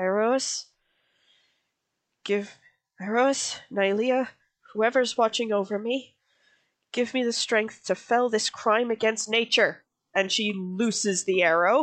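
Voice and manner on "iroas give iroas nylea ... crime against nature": muttered, mumbled under her breath. Voicing a character praying while drawing a bow, mumbling under her breath. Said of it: "sort of mumbles under her breath".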